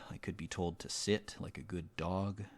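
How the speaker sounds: soft unvoiced whisper. Real, not acted. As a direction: breathe it out as a secret aside. Whispered aside to viewers.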